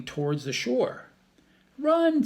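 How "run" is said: high loud cry to run; urgent cry. Acted. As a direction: yell it in panic. Annie fleeing pirates.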